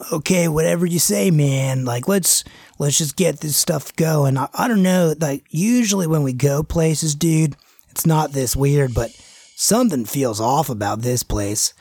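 lightly voiced gross surfer dude, lazy and easygoing; a hint of a grimy surfer bro, shrugging it off. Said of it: "the gross surfer dude kinda guy".

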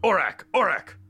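high, loud, urgent name call; calling to attention. Acted. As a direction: snap a daydreaming partner awake. Elf nudges distracted partner, calling him.

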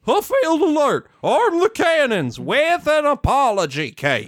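guard's alarm. Acted. Acted guard raising the alarm.

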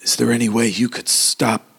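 put-on hesitant old man, halting with long pauses; lightly put-on elderly gentleman voice. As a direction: make an awkward, delicate request as the old man. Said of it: "the old dude".

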